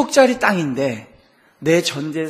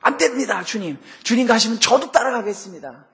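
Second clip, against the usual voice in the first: eager Peter; 5 semitones higher than usual. Retold or imitated. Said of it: "주책맞게 튀어나와요".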